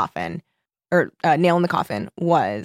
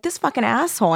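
mildly acted outrage, pitched up; higher-pitched retold indignation; retold anger; 5 semitones higher than usual. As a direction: replay an angry verdict on someone. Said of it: "I was so mad".

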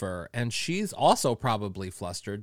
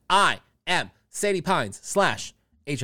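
ordinary delivery

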